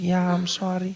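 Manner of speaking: high, slow put-on pharmacist accent; mock the offhand shop clerk. Pharmacist telling him there's no stock, in a high put-on voice.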